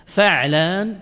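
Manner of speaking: فعلان as fa'-laan, no vowel on the ع; fatha then sukun. Shown as a demonstration. Teacher modelling the pattern, فعلان said "fa'-laan". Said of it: "فتحة فسكون".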